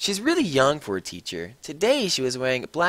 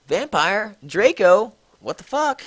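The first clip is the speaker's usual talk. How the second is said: higher, disbelieving questions; shocked; 6 semitones higher, 3 dB louder than usual. A narrator's reading. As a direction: react in total disbelief. Narrator shocked at fight.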